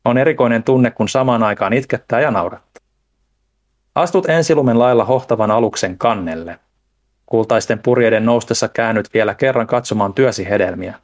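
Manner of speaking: measured, solemn farewell poem; poem reading. Real, not acted. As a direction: read it out like a literary send-off, phrase by phrase. Continues the poetic farewell reading.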